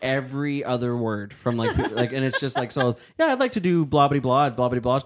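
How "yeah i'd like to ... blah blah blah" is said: mimicked caller. Acts out a caller's request.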